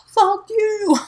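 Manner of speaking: high loud mock curse; retold angry curse. Her son cursing at the bully, loud. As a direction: spit it out like an angry kid. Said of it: "be like".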